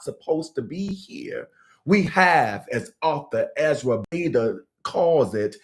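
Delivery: measured, articulate reading of a reflection; prepared teaching read-aloud. Acted. Meditation host reads a teaching on difficult emotions to viewers, measured read-aloud. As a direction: read it out phrase by phrase, settling down at the ends.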